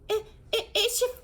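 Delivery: high, loud stammering gasp; breathless shock, tripping on words. A narrator's reading. Mum gasping out the truth, high and loud. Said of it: "Susie gasped".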